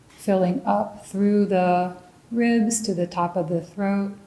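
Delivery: measured meditation guidance with long pauses between phrases; guided meditation. Real, not acted. Meditation teacher leads listeners into mindful raisin tasting, calm guided meditation. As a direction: guide them calmly, leaving room to notice each sensation.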